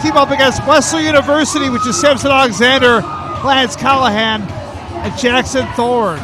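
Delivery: excited wrestling commentator; play-by-play commentary. Acted. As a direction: call the match live.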